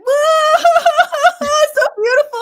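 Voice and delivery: very high, loud crying wail; sob-laughing at a sweet scene; crying at movie. Retold or imitated. Moved to tears by a movie, loud high crying wail. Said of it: "I'm like".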